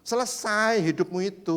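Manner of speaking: slow, lightly voiced devil; a hint of a whispering devil, slow; tempting devil. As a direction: drag it out like a sly tempter. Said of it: "dia bisa mengeluarkan suara kayak gitu".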